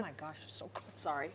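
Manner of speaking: talking through a bite; words round a mouthful; mouth full. Real, not acted. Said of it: "As I'm stuff my face".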